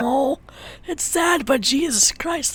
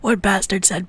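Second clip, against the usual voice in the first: amused, laughter bubbling under the words; real laughing; 4 dB louder, faster than usual. Real, not acted. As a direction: explain while trying to stop laughing. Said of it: "I'm just laughing because".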